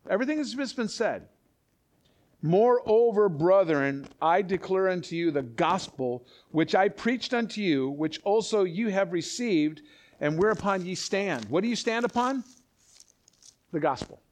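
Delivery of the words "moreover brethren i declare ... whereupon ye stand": measured, emphatic verse reading; scripture reading. Acted. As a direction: declare the verse to the congregation. Reads scripture aloud to congregation.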